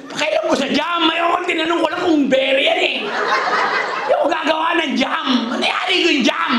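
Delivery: comic rant about jam; ranting while laughing. Real, not acted. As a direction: vent in laughing disbelief. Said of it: "Tawang-tawa to".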